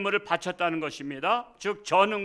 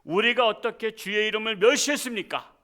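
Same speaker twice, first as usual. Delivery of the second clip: raised, defensive retort; indignant protest; 4 semitones higher, 5 dB louder than usual. Retold or imitated. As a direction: push back as if wrongly accused. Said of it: "항변을 하는 거예요".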